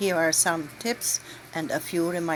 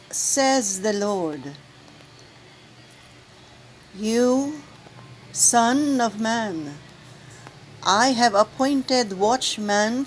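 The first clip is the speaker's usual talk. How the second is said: solemn proclamation. Acted. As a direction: proclaim it to the assembly with gravity. Proclaims the first reading.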